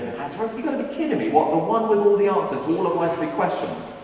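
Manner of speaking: high, incredulous mock scoff, lightly voiced; dismissive scoffing. Nathanael brushing off Philip's claim, incredulous and mocking. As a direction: scoff at the idea like it's a joke. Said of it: "He kind of dismisses it. He goes".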